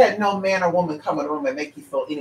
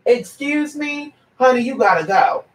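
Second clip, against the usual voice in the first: sassy dismissal; 5 semitones higher than usual. Real, not acted. Dismissing a gossiping caller.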